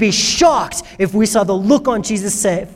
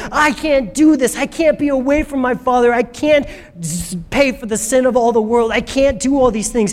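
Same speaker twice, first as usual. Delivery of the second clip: mildly panicked, pitched-up protest; acted freak-out; 3 semitones higher than usual. Jesus' flesh wanting to flee the cross, a touch of panic. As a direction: flip out a little, refusing one thing after another. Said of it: "to freak out, to flip out and say".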